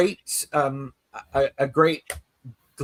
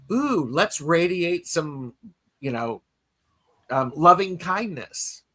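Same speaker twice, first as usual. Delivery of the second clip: gentle loving kindness; 2 semitones higher, slower than usual. Retold or imitated. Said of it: "I just sort of went".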